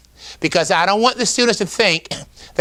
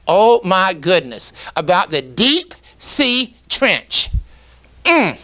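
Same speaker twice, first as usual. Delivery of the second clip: oh my goodness, slowed and savoured; excited demo. Shown as a demonstration. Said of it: "I want you, as you say the words, to put emphasis on that item".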